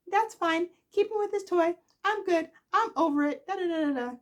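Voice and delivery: high, loud, forced breezy; seething but pretending it's fine; fake-fine Victoria. Victoria hiding her anger about McCall, high and forced. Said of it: "I know she's seething under her breath".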